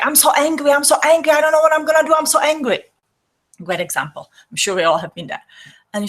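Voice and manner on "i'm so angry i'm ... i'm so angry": high, loud, pent-up frustrated rant; angry. Pretend. Person voicing hidden anger, loud frustrated venting. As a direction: vent it like you could burst. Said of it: "you may feel like".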